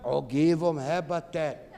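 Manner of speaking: laughing through a mocking repeat. Real, not acted. Mocking the bird law, laughing at the irony. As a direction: chuckle out the words in disbelief.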